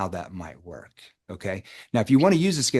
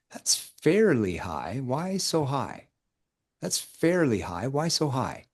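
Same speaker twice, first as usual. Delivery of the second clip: slow curious tone; 3 semitones higher, much slower than usual. Shown as a demonstration. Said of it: "See how I shift the tone?".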